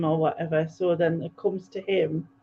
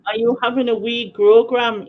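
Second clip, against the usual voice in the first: put-on Scottish accent; 4 semitones higher, 7 dB louder than usual. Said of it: "That was my best Scottish accent".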